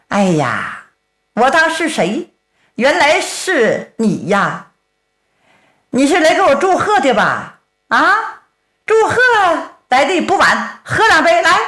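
sly, taunting bandit; mock him with fake welcome; the bandit taunts his rival with a mock invitation; mocking villain.

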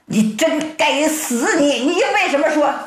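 high-pitched scolding; storyteller's angry husband; exasperated husband. A narrator's reading. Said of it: "你真气死我了".

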